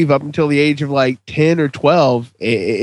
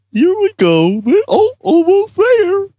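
high, unhinged villain voice building to a cackle; creepy maniac, climbing into a shriek; crazy voice; 3 dB louder than usual. Acted. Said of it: "What the fuck was that".

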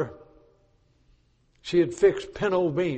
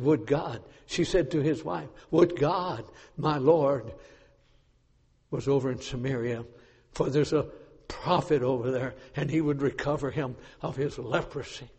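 soft retelling; 4 semitones lower, 7 dB quieter than usual. Retold or imitated. Retelling the girl softly.

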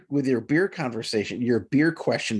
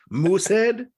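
laughing, much higher and louder, slow; incredulous laughing question; 8 semitones higher, 4 dB louder than usual. Real, not acted. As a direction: blurt it through a laugh. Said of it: "laughing surprise".

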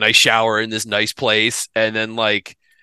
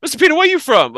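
southern dude voice; 3 dB louder, faster than usual. Retold or imitated. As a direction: ask it like a puzzled Southern host. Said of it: "big old dude from the South".

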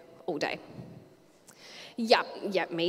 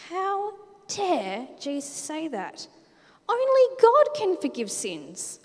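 indignant; 8 semitones higher, 5 dB louder, slower than usual. Acted. Experts' indignant thoughts.

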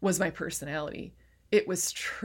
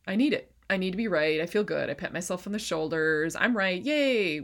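mock self-congratulation. Coach playing her need to be right, mock triumph. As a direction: act out pleased self-righteousness, lifting at the end.

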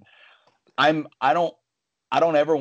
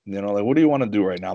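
calm challenge; faster than usual. Retold or imitated. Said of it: "I was very calm".

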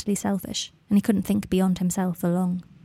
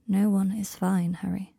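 gentle and firm; slower than usual. Acted. Draco gently contradicting Harry.

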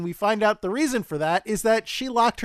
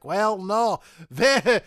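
put-on Scottish accent; 3 dB louder, slower than usual. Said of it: "It's Scrooge McDuck".

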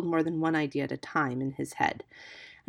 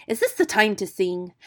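loud, cross scolding question; raised, exasperated voice; angry; 2 semitones higher, 7 dB louder than usual. A narrator's reading. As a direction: scold a friend at the wrong moment. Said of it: "said Rikki Tikki angrily".

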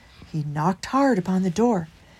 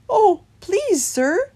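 high, louder pleading mouse voice; little mouse; 12 semitones higher, 7 dB louder, much slower than usual. A narrator's reading. Christopher addressing the hedgehog at the gate, high little voice. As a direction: answer high and politely. Christopher answers Holgate timidly.

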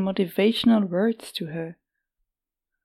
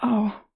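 soft ow; 3 semitones higher than usual. Acted. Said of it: "let out a soft".

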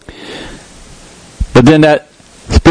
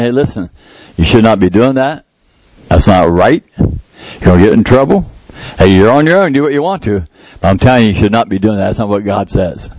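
calm instruction; 5 semitones lower than usual. Shown as a demonstration. Preacher showing how to correct a loved one, calm and firm. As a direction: lower and steady, firm but calm. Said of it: "But not screaming".

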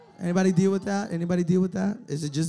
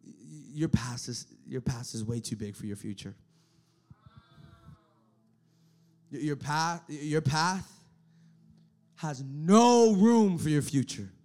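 enemy's voice; 7 semitones lower than usual. Retold or imitated. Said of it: "You know what he says?".

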